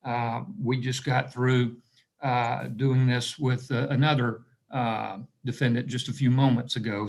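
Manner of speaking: slightly raspy, tired voice; a rasp from talking all morning. Real, not acted. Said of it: "I wanna apologize for my raspy voice".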